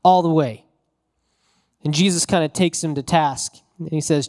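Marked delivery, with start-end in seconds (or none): 0.0-0.7 cocky Peter. Retold or imitated. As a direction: play Peter puffing himself up. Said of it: "He's like".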